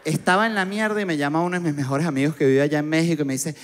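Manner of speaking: ordinary talk, nothing marked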